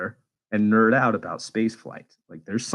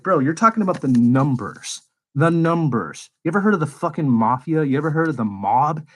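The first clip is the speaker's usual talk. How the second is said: higher, louder incredulous rant at the scammers; retold rant; 5 semitones higher, 3 dB louder than usual. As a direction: hammer the questions in mock outrage. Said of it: "I was like".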